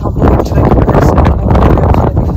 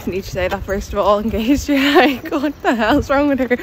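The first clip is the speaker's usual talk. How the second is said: talking with teeth strips in; words slightly blocked by strips; with whitening tray. Real, not acted. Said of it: "I've got my teeth whitening strips in".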